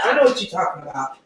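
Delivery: ordinary talk, nothing marked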